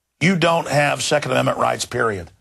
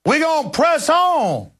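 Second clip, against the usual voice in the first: high, drawn-out mock Black preacher voice; exaggerated imitation of a Black preacher; Obama; 12 semitones higher, slower than usual. Mocking the clip just played, hammed-up preacher cadence. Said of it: "doing a little bit of a black preacher voice".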